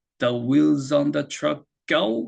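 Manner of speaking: very slow, every word stretched out.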